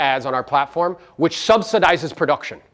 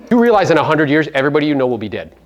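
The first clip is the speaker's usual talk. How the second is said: usual speaking voice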